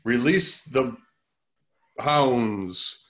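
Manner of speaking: lightly voiced over-explaining villain; hammy movie villain. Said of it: "articulating every single bit of action".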